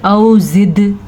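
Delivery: औ जिद with a bouncing echo on the final d; औ जिद, final d popped; qalqala bounce. Shown as a demonstration. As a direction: give the last consonant of औ जिद a small jolt. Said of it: "तो झटका देते हैं".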